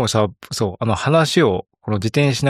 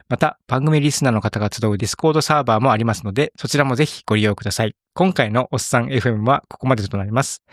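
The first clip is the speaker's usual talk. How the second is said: closing read. Acted. Reads the show's closing script.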